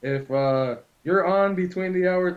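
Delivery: a hint of a radio ad read; pranking workers with a fake walkie-talkie ad, lightly voiced announcer; commercial announcer voice. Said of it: "I was doing the commercials".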